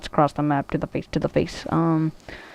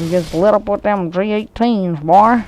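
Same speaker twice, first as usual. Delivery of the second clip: gangster voice; 4 semitones higher, 4 dB louder than usual. Pretend. Gangster bravado about guns.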